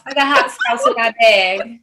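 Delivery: playful American accent example. Shown as a demonstration. Second example for the cohost to copy, American accent. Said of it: "Give me an example".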